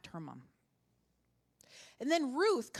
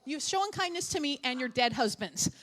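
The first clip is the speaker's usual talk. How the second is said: salty; 5 dB louder than usual. Retold or imitated. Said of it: "she was a little salty".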